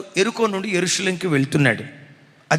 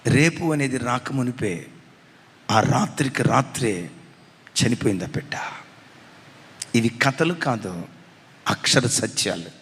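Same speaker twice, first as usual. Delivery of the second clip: somber low sermon; 9 semitones lower than usual. Acted. Somber preaching aside.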